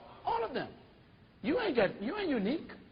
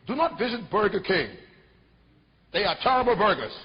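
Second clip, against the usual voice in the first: loud TV-ad announcer voice; a pushy announcer slamming a rival, much louder; mock attack ad; 9 dB louder than usual. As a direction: bark it like a hammed-up TV commercial. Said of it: "on T V saying".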